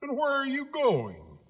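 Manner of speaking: high scarecrow voice. Acted.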